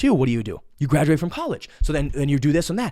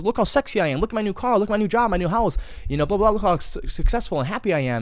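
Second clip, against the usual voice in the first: mock bragging; 6 semitones higher than usual. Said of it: "It goes".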